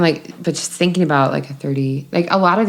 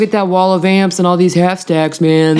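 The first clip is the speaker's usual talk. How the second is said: stoner voice; 2 semitones higher, 3 dB louder than usual. Acted. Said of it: "that's just my stoner voice".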